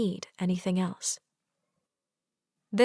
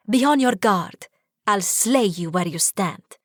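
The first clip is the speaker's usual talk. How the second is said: mock challenge; 4 dB louder than usual. Playful pretend sword fight challenge.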